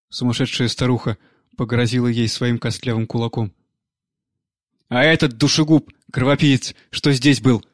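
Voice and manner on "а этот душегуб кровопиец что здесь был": put-on old nanny nursing a grudge; crazed old nanny. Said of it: "вспомнила она". (злобная старуха, чуть громче)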